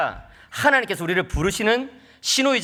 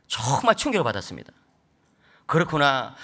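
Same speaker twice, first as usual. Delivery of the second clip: ordinary talk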